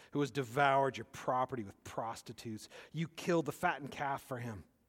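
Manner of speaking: words dripping with disdain and contempt. Reading the older son's complaint to his father aloud: acting out disdain in his voice. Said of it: "you can hear the disdain in his voice".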